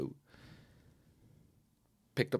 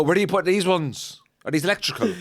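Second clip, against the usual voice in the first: mock innocent asking; 8 semitones higher, 8 dB louder than usual. Playing innocent at the dump.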